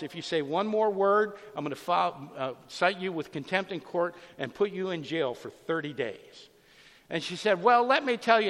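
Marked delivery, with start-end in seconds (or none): 0.0-6.5 mildly raised, threatening judge voice; retold hollering judge. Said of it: "he hollers". 7.6-8.5 loud, higher, indignant outburst; mock her yelling at the judge; retold screaming woman. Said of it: "this woman is screaming at him".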